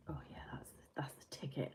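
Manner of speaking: a soft, hushed sigh of pleasure over the tea; quiet contented murmur after a sip of tea; whisper. Real, not acted. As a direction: breathe it out like the first sip hit the spot.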